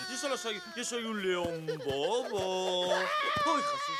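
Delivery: very high sudden cry; startled yelp. Acted. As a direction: yelp in surprise. Startled lion yelps.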